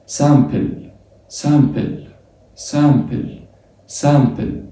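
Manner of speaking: سامبل with a nasal am, repeated; French simple. Shown as a demonstration. Teacher drilling French word for students: سامبل with nasal vowel. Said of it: "تبقى سم ولا سام".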